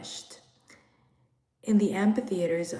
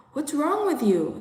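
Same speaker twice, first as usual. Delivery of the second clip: alarmed question; 7 semitones higher, 5 dB louder than usual. Acted. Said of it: "asked each other".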